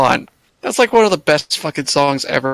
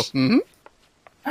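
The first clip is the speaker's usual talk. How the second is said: casual mm-hmm. Retold or imitated. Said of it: "You just hear a casual".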